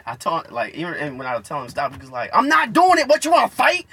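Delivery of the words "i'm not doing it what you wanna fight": high, loud denial into challenge; hammed-up belligerent outburst; mock aggressive yell. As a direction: yell like a kid picking a fight. Imitates classmate denying and challenging.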